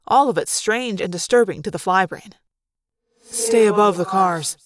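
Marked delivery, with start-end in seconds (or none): 3.2-4.6 warning. Acted. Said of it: "Tobias warned".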